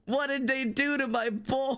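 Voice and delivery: high, whining plea; hammed-up wail of protest; anguished protest. Real, not acted. Protesting the character redesign.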